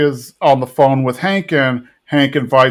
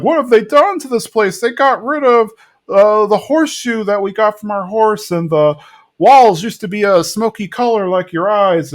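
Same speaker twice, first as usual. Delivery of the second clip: higher, lightly voiced dismayed wife; a hint of a fussy, upset woman; 8 semitones higher than usual. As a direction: lament the changed place. Miss Liz dismayed at restaurant.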